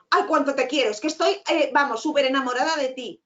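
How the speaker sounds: mock angry. Shown as a demonstration. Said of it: "así tan enfadada".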